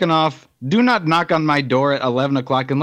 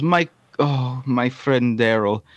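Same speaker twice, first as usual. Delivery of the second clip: put-on Bosnian accent. Stranded visitor asking for Daryl and a ride, Bosnian accent. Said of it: "do a Bosnian accent".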